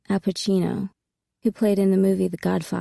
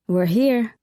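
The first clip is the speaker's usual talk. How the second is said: booming excitedly; 3 semitones higher, 3 dB louder than usual. A narrator's reading. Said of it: "Sam's voice boomed excitedly".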